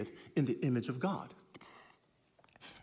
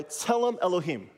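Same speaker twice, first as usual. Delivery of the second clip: a little louder; 3 semitones higher than usual. Shown as a demonstration. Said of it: "a little louder".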